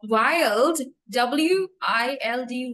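WILD said clearly, then W I L D spelt slowly; slow, separated letters of W I L D, then the whole word WILD; spelling out. Shown as a demonstration. Teacher spelling a new word for a learner, slow and clear.

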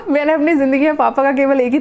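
laughing through the words, a little teary; half laugh, half cry at the memory. Real, not acted. Recalling dad's only slap, laughing through the words.

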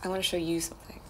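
hushed secretive whisper. Acted. Secretive reveal setup.

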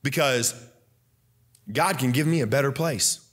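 fervent preacher's delivery; preaching. Acted. Preaching at full force again.

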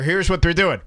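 ordinary talk

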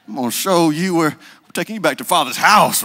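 hammed-up mama scolding; mock stern mother. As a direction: playfully threaten to drag him home. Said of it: "You'd be like".

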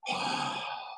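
long heavy exhale; hibernating-bear breathing. Retold or imitated. Imitating the huge client told to just breathe, heavy exhale. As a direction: breathe out slowly like a sleeping bear. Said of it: "breathing like a bear hibernating".

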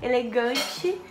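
numb mouth, slightly slurred words; numb from the dentist. Real, not acted. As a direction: talk with an anesthetized mouth. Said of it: "ainda tô com a boca anestesiada".

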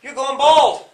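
loud, high mocking taunt; a kid bully mocking the officer's hair loss; teasing bully. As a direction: jeer at the officer's bald head like a kid. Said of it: "Or if they said".

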